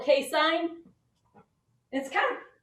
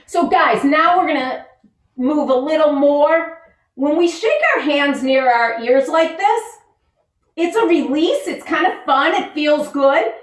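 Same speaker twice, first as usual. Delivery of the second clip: louder, peppy teacher energy; energetic; 2 semitones higher, 7 dB louder than usual. Acted. Teacher rousing kids during hand shaking. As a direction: pump the kids up.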